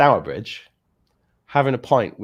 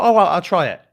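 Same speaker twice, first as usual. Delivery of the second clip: higher, louder mock mum voice; imitating mum; 8 semitones higher, 10 dB louder than usual. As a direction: play his mum, chirpy and game. Mum agreeing, retold quote.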